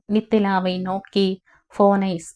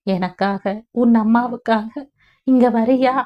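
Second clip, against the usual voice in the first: pleading, longing; 2 semitones higher than usual. Acted. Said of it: "யாசகம் கேட்பது போல".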